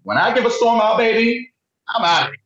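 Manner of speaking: high, sassy diva voice; sassy drag queen. Retold or imitated. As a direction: throw the line with attitude. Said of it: "Because she said".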